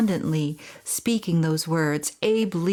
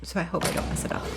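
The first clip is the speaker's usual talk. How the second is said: fast breathy whisper "so I hope I don't mess it up"; 6 dB quieter, faster than usual. Real, not acted. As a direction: whisper it quickly to yourself.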